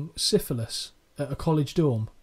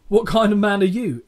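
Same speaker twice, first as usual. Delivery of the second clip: Macho Man impression; 3 semitones higher, 7 dB louder than usual. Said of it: "I can't do the voice".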